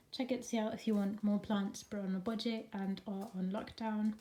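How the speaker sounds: talking while out of breath; breathless, catching your breath. Real, not acted. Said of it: "oh, I'm out of breath".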